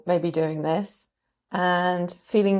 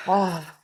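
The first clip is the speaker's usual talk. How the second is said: breathy sigh. Shown as a demonstration. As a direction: breathe out with a gentle ah. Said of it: "a noise on the out breath".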